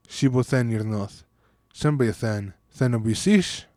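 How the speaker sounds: measured, even poem reading; reciting a conlang poem; poem recital. Shown as a demonstration. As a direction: recite it like a poem in Eastern Letri. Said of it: "I'm going to recite a poem".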